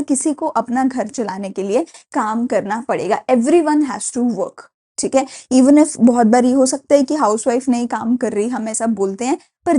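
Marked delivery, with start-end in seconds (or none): 3.3-4.6 slow emphatic point. Acted. Teacher stressing a key sentence.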